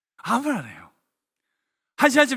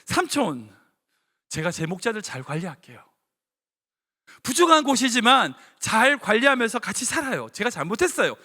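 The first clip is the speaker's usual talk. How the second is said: humble nephew. Retold or imitated. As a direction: ask forgiveness gently. Lot's ideal humble answer.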